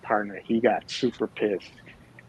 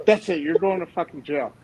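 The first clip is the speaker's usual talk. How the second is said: arresting shout; 5 semitones higher than usual. Retold or imitated. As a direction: snap and slam down the arrest. Partner arresting the guy.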